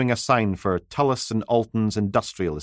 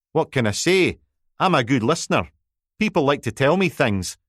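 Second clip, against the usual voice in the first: self-satisfied, smiling voice; smug; 6 semitones higher, 3 dB louder than usual. Acted. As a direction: purr it, pleased with himself. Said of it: "hear the smug smile in his voice".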